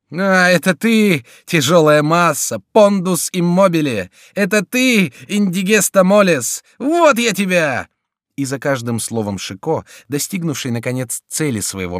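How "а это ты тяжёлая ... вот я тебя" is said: high, loud and slow taunting; gleeful angry thrashing; mocking fury. A narrator's reading. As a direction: taunt him while beating. Chico beating the duke.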